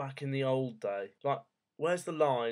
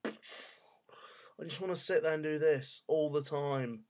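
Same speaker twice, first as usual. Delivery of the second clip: whisper; 4 dB quieter, slower than usual. Pretend. Dreamily stroking imaginary beard.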